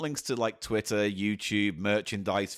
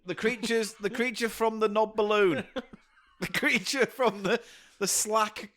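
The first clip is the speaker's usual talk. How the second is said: horror title voice; 7 semitones higher than usual. Pretend. Mock horror title while laughing.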